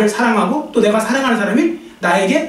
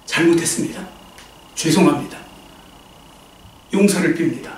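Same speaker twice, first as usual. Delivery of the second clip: low, softer imitation of a weeping apology; tearful apology; 5 semitones lower, 3 dB quieter than usual. The killer begs forgiveness in court, a mild tearful apology. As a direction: say sorry as if breaking down. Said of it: "눈물이 막 쏟아져요".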